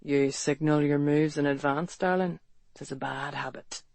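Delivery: low, soft Irish brogue close to her ear; beguiling Irish brogue. Acted. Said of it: "beguiling, whisky-warm voice fell against her ear".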